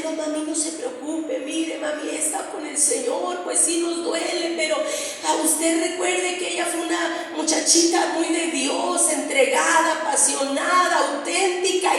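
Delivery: gentle pep talk, gradually firmer; brave consoling daughter. Retold or imitated. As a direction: bravely comfort a weeping mother. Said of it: "yo bien valiente".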